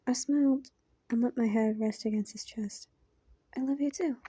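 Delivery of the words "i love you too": whispered reply. Acted. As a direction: breathe it back in a whisper. Narrator answers the confession.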